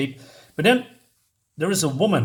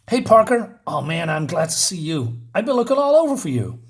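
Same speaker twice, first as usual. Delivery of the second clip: eager greeting. Acted. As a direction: chase him down, glad to find him. Student greets Peter eagerly.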